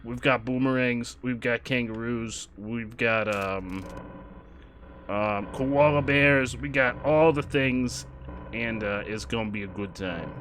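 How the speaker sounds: hammed-up fake Australian character voice; bootleg Pikachu. Streamer welcoming viewers down under, bad Australian character voice. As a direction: play a knock-off mascot attempting Australian. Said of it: "this is bootleg Pikachu here".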